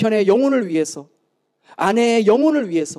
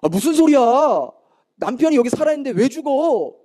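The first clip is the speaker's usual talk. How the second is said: higher, taken-aback protest; imitated indignant husband; 4 semitones higher than usual. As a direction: object like a husband in mock indignation. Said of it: "남편이 정색을 하면서".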